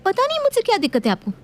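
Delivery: daughter-in-law. Acted. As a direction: throw it back at her.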